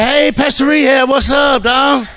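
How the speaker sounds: high, hollered street greeting; imitated call-out. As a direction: holler it like a buddy spotting him. Retold guys calling out greeting.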